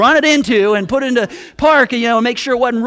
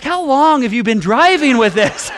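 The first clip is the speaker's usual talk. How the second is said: 1 laughing; 3 semitones higher than usual. Retold or imitated. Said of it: "then he laughed again".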